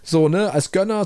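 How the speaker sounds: a half-hearted shout at someone walking off; hurt friend calling after the one who storms off; mock yell after him. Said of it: "schreit ihm hinterher".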